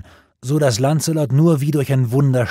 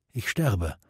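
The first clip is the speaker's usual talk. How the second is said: dying words; 2 semitones lower, 5 dB quieter than usual. A narrator's reading. Gawain dying.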